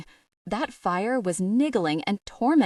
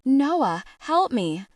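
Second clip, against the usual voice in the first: cry for help; 5 semitones higher, 4 dB louder, slower than usual. Acted. Calling for help again.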